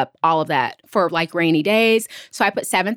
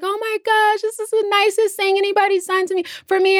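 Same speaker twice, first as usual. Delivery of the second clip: much higher, gushing and choked-up thanks; imitating a teary friend; 11 semitones higher than usual. Best friend thanking her for the care package, high teary gush. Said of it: "She was crying".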